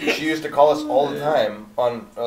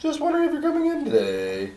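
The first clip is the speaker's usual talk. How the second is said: much higher and fast, a chirpy put-on lady voice; high sing-song church lady; faster than usual. Church lady calling on his day off, high fast sing-song. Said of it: "she had kind of a sing-song voice".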